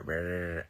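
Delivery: "Brr" with a clumsy attempted trill; failed R roll. Shown as a demonstration. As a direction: try and fail to trill "Brr". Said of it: "can't roll my R".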